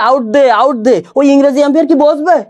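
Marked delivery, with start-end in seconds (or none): 0.1-1.0 "আউট দে" slurred for "How's that"; mispronounced cricket appeal. Shown as a demonstration. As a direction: mimic a Bengali player's garbled "আউট দে". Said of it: "বাঙালি পায়ে বল লাগায় যদি বলি". (বাঙালি খেলোয়াড়ের ভুল উচ্চারণে "আউট দে")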